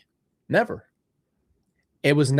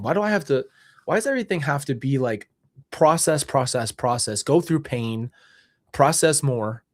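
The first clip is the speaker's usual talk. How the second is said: exasperated questioning God; 2 semitones higher than usual. Retold or imitated. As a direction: plead with God, pushing the voice up in disbelief. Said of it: "I'm like".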